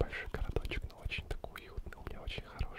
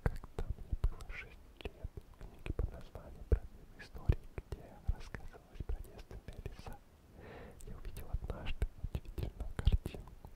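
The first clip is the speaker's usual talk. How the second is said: calm whisper. Acted. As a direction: whisper the story to lull them asleep. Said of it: "таким тихим, тихим, спокойным шепотом".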